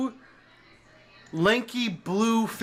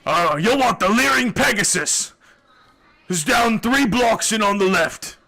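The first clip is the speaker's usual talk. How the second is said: excited; 4 dB louder than usual. Acted. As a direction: gush about the bathhouse. Bathhouse fan gives directions.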